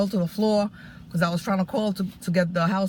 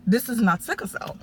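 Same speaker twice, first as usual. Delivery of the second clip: "this is not sickle cell" pushed out, rising, a bit raised; exasperated insistence; 4 semitones higher than usual. Retold or imitated. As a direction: insist on "this" with lost patience. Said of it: "so I lost my patience".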